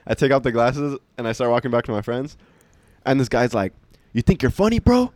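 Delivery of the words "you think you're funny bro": much higher, louder mock challenge; mock tough guy. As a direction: throw down the challenge like the pressed vendor. Angry vendor confronts him.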